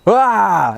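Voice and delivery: high mock scream answering a challenge; imitated scream. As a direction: mimic screaming back, without full volume. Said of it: "it just gets louder and louder".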